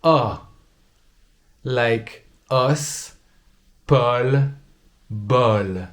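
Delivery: os, Paul, bol said with an open O; slow textbook pronunciation. Shown as a demonstration. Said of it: "It's more like an open O".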